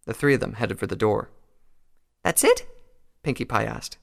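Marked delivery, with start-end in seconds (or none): 2.2-2.7 tag. Acted. Voices Pinkie Pie, high-pitched.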